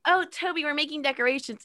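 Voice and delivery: high sing-song innocence; high innocent. Retold or imitated. Jimmy and Ashley quote.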